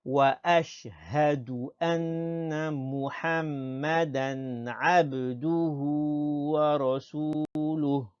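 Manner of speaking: slow, chant-like Arabic, vowels held; slow model recitation. Shown as a demonstration. Teacher leading pupils through the second part, slow recitation. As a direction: recite it in one smooth, measured line. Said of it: "une dernière fois".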